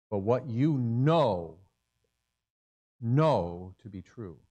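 slow, deliberate what you know, know to be true; slow emphasis. Real, not acted. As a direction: spell it out slowly. Preacher emphasizing knowing.

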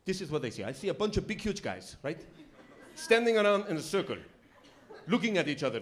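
lightly voiced foreign cabbie explaining; imitated immigrant cab driver's account; Bana. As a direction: explain it as a baffled newcomer. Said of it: "he starts to explain American football".

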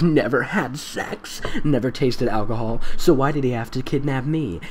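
mock-earnest teen girl reading; dramatic fanfic narrator. Comedian reading fanfic as a dramatic teen girl. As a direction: read it like a melodramatic diary.

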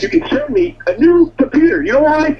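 irate demand. Real, not acted. Irate customer makes his demand.

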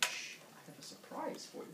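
soft, secretive coaxing; sly hushing whisper. Acted. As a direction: lure the kids with a whispered secret. Father hushes kids to trick them.

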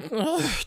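short, high creature noise; Smeagol-style noise. Shown as a demonstration. Friend showing how his character talks, short creature noise. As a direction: demo a quick high Smeagol grunt. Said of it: "talking like that".

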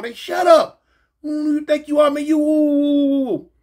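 high mocking gibberish tail; mock scolding. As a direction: imitate guards telling someone off. Acts out guards yelling back.

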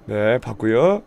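normal talking voice

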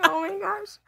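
high, breathless laughing. Real, not acted. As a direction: gasp it while laughing. Reacting to goat impression.

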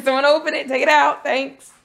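high little voice for the pet; lightly voiced pet. Voicing the pet waiting for the box, lightly put-on high voice. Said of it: "It's like".

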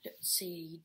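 sneaky whisper. Real, not acted. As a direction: whisper so he won't hear. Sneaking in the dark.

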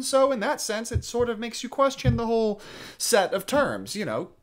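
mildly worked-up joking defence, pitch climbing; joking, flirting. Acted. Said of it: "flattering and joking and trying to".

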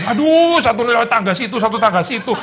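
high, loud mock exasperation with a laugh; exasperated. Reader annoyed at the story's detours, laughing exasperation. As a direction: act out the impatient reader. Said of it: "Eh, bikin jeng".

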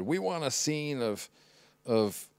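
a lightly mocking put-on voice for the producer; half-hearted silly impression of a film producer; stupid producer voice. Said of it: "why I'm making that stupid voice".

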